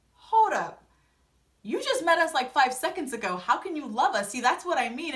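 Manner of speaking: indignant mock disbelief; retold challenge. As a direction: imitate a sister stopping him short. Acting out sister challenging Brian.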